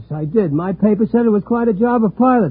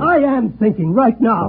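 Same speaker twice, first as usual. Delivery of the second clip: mildly raised voice, insistent. Acted. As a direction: protest with a slightly raised voice. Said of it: "Don't raise your voice".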